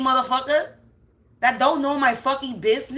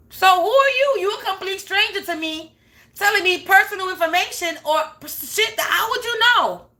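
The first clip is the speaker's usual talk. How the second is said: heated; 6 semitones higher than usual. Real, not acted. Ranting at nosy neighbor.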